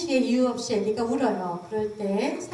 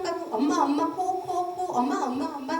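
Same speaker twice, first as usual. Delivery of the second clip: put-on mother's baby talk; 4 semitones higher than usual. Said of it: "똑같은 상황에서 하는 말입니다".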